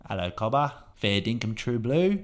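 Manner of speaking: Australian accent. Shown as a demonstration. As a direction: put on an Australian accent, slowly. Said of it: "for Australian, it's".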